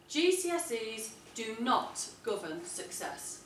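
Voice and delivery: deliberate persuasive reading. Shown as a demonstration. Teacher reading her model paragraph aloud to the class with emphasis. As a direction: read it deliberately so the rhythm shows. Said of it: "I'll read it quite deliberately so that you can hear the emphasis".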